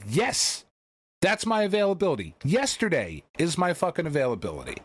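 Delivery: high-pitched, insistent demand; retold exasperated outburst; impatient retort. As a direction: snap back urgently at the scheduler. Retold impatient answer to scheduler.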